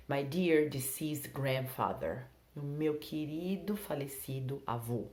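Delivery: slow, careful, each word clear; slow example. Shown as a demonstration. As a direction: read it out slowly for learners. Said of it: "model sentence slowly".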